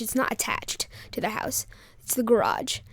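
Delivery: hushed aside whisper. Real, not acted.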